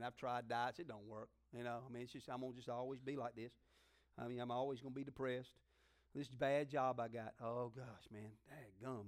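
low, quiet woe-is-me voice; self-pitying mope. Retold or imitated. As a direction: sigh it out like a defeated loser. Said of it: "Thoughts like".

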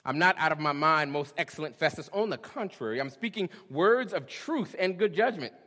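preacher voicing Paul's bold defense to Festus; bold declaration. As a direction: proclaim it boldly like Paul before Festus. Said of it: "he was after something bigger".

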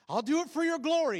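high, loud whiny plea; pleading with God to help with the cello; desperate plea. Retold or imitated. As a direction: wheedle God like a begging kid.

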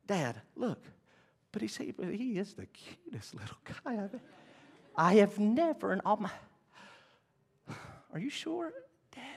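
hammed-up daughterly pleading. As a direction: coax Daddy in a small high voice.

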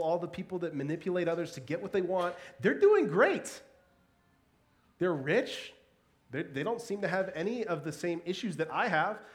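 aggrieved protest, peaking high and loud early; indignant complaint. Acted. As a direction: pile up the grievances in mounting disbelief. Acts out Asaph's indignant complaint.

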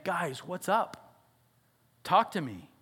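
soft, slow and gentle; tender invitation. Retold or imitated. God the Father gently calling his hiding children, soft and slow. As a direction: coax them out kindly. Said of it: "with tenderness".

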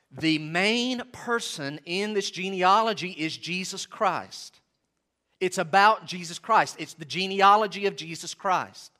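slow, weighted words on "Jesus Christ" and "he is the key"; firm emphasis. Real, not acted. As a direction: drive home each phrase without yelling. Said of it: "I'm emphasizing it with my words".

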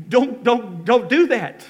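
loud, high pleading call; mock yell. Preacher yelling at the screen, loud and high. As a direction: keep shouting the warning. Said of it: "wanting to yell out".

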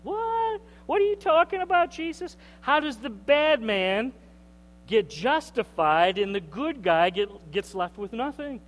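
high, fast disbelieving outcry; incredulous listeners. Retold or imitated. Preacher voicing listeners' disbelief, high and incredulous. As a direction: voice the congregation's shock. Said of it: "the listeners right now are thinking".

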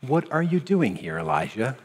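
softly spoken divine question; voice of God, gentle. Acted. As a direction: ask it tenderly as God would. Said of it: "The voice said to him".

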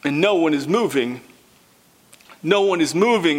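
pause, then say it again; hushed suspense. Acted. Preacher telling how no one moved, hushed then firm.

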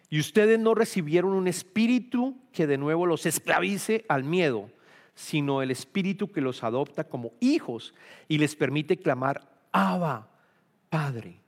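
a Bible verse proclaimed to the congregation; scripture reading. Acted. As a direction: read the verse out with conviction. Reads scripture aloud.

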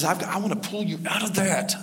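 soft, reassuring voice of God; gentle, softened offer of rescue; tender God. Acted. God offering to pull someone out, tender.

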